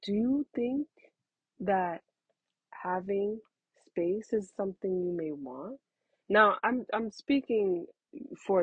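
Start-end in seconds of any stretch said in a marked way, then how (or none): 0.0-5.8 put-on calm a child down tenderly; a mother soothing her upset older child; gentle parent voice. Shown as a demonstration. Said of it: "You might wanna just say".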